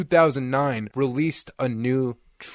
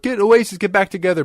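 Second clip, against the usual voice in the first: mock fan plea; 7 semitones higher, 4 dB louder, faster than usual. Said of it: "all these fans are like".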